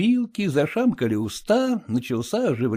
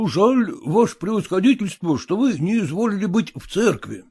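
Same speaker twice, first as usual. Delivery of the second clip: fawning, eager to please, higher; obsequious; 7 semitones higher than usual. A narrator's reading. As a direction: flatter the general humbly. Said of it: "говорит подобострастно купец".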